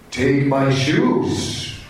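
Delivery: very slow, lightly acted command. Voice repeating its order to the lady, slow and commanding. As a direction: stretch each word like a mild spell. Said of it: "deep commanding voice".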